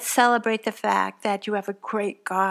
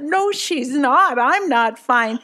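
higher and louder, slow, frazzled; panicked new mom; 3 semitones higher, 5 dB louder, slower than usual. Retold or imitated. New mom answering her nurse friend, higher and louder in distress. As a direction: plead it like a mother at her wits' end.

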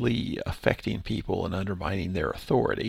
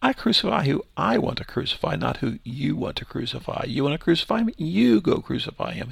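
in their face; 4 semitones higher than usual. Retold or imitated. Pastor voicing Pilate taunting the priests, defiant and in their face. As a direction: throw it back at them, taunting. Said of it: "kinda in their face".

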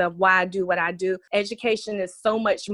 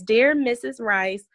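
put-on reading a child's letter. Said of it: "It says".

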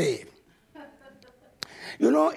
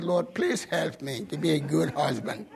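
mock prayer under breath; 8 semitones lower, 6 dB quieter than usual. Muttered prayer about his wife.

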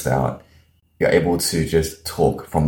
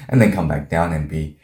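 slow rhythm. Shown as a demonstration. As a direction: come down into a slow, spaced delivery. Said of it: "in this same slow rhythm".

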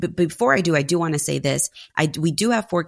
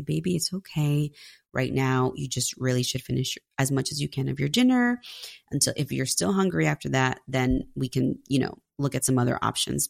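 softer, gentle mom voice, hushed and soothing; soothing a child; 5 dB quieter than usual. Retold or imitated. Mother comforting her crying three-year-old, soft and soothing. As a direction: coax the little one kindly while rubbing his back.

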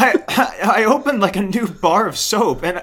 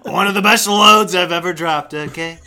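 Trump impression. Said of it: "My Trump impression".

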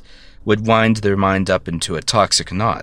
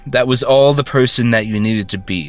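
raised, louder, higher bitter outburst; bitter rant; 3 semitones higher, 3 dB louder than usual. Acted. Ranting over the favored brother's grave, loud and bitter. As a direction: throw years of resentment at him.

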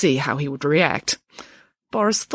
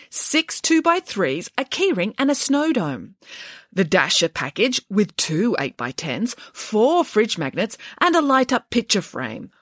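christmas elf; 5 semitones higher than usual. Acted. Elf reciting photo packages.

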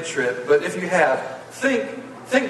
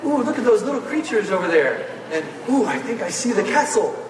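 put-on higher, wide-eyed childish wonder; excited kid; 5 semitones higher than usual. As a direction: gasp at everything like a kid at the gate. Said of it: "You start going".

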